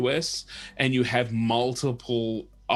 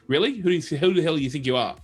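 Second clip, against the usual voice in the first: mocking, higher and quicker retort; scoffing disbelief; 4 semitones higher than usual. Aussies scoffing at his million-dollar dream, mocking disbelief. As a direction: sneer at the dreamer.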